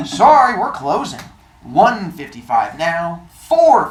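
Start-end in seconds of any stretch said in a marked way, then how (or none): 0.1-1.2 curt shopkeeper. Acted. Shopkeeper closing.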